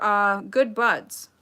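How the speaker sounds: "good buds" stretched out slowly; slow knowing drawl. Real, not acted. Host to chat about Lilly, slow sly drawl. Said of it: "Real good buds".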